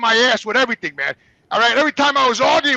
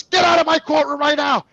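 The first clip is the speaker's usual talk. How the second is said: retold judge shouting; 6 semitones higher than usual. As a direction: throw them out of the courtroom. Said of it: "And she goes".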